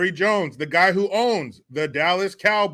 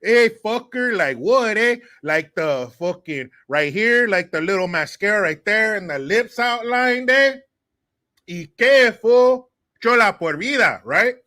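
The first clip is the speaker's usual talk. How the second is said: a put-on tough Chola voice, louder, chola por vida; brash chola girl calling him out, pushed louder; Chola impression; 3 semitones higher, 4 dB louder than usual. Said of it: "who dated this Chola Mexican chick".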